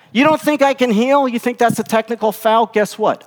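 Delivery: high, forceful taunting questions; defiant challenge. Acted. Jesus to the doubting religious leaders, defiant challenge.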